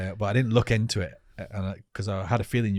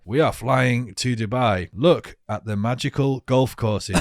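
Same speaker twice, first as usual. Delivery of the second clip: slow, monotone presenter voice; Michael Owen monotone; 3 dB louder, slower than usual. Retold or imitated. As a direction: drone it like a bored TV pundit. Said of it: "his monotone voice is like".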